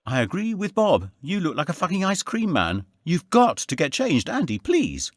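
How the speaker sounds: Tracy mocking Andy's outfit, high voice; Tracy's voice. A narrator's reading. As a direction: tease him in a lifted female voice.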